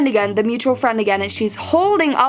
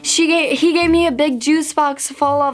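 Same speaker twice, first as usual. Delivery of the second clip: put-on drunk friend; 4 semitones higher than usual. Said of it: "She's drunk".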